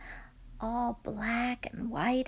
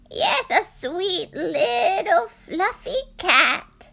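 slow, higher tearful plea; pleading old woman; 7 semitones higher, 7 dB louder, slower than usual. Acted. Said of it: "said the very old woman".

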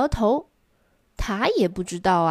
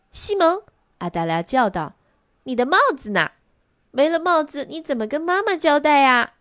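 worried cry; 6 semitones higher than usual. A narrator's reading. Sister worried about the lost hat, crying out. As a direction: call out in worry about Mama.

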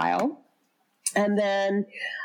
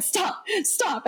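mock shout; 11 semitones higher than usual. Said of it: "all of a sudden it comes out".

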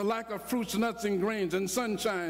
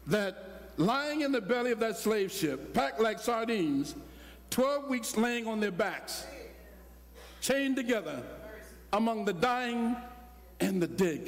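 slow, deliberate sermon cadence; measured solemn preaching; slower than usual. Acted. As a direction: lay each image down slowly. Preaching slow on slave ship.

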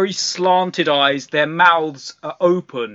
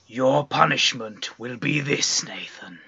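Krampus voice. Acted. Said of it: "and he says".

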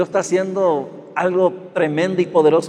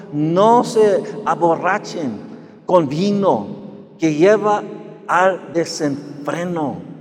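solemn scripture reading; 2 semitones higher, slower than usual. Acted. Slow solemn verse reading.

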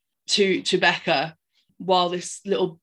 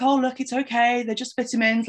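lightly acted, higher coaxing; retold sweetness; 4 semitones higher than usual. Audrey offers Becca vitamins, mock sweet reassurance. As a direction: reassure sweetly, as if quoting someone. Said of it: "Audrey being really sweet".

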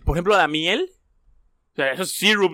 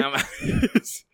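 squeaky disbelief. Real, not acted. Friend's shocked joke reply.

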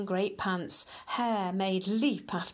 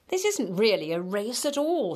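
huffy; 4 dB louder than usual. Acted. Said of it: "he huffed".

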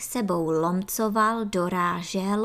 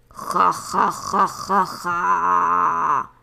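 loud, deep devilish cackle; 3 semitones lower, 7 dB louder, much slower than usual. Acted. Baby antlion roaring with devilish laughter, loud deep cackle. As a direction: cackle like a little monster. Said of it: "zařvalo s ďábelským chechtotem mládě".

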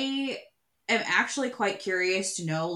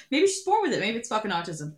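ad slogan voice; 2 semitones higher than usual. Acted. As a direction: sell it like a makeup ad. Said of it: "That's going on fucking TikTok".

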